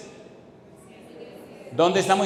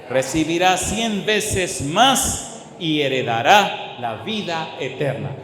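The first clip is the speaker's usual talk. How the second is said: slow proclamation, each item separated; emphatic scripture reading; slower than usual. Real, not acted. Preacher reads Jesus's promise to congregation, slow emphatic reading. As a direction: punch each item deliberately, with pauses between.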